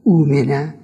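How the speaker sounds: اومنه said as umenæ with long u; اومنه opening on long u; correct form. Shown as a demonstration. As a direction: say اومنه as umene. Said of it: "بگو".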